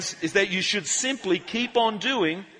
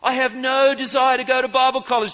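retold refusal; 5 semitones higher, 5 dB louder than usual. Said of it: "Jesse says to the Oldfield family".

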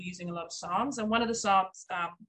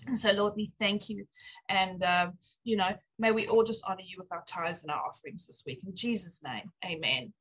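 spoken prayer. Acted. Pastor's wife praying for the church's giving and new home, earnest. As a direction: pray it sincerely to the Lord, unhurried.

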